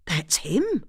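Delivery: sudden startled recognition; a jolt of surprise at the photo; surprised. A narrator's reading. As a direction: catch your breath as you spot him. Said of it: "Antonia said in surprise".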